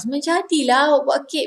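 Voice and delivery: quick impressed Menjadilah awak buat kek; wow, your cake came out well; surprised praise. Shown as a demonstration. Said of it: "it's like surprise".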